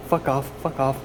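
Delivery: loud repeated fuck off, rhythmic; angry shooing. Real, not acted. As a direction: keep chasing them off. Shooing flies.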